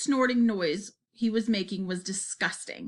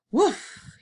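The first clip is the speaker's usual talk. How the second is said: sudden high puff of breath; short voiced blast of air; blown-out woof; 7 semitones higher, 4 dB louder than usual. A narrator's reading. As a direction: blow out a quick, loud "woof". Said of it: "he blew".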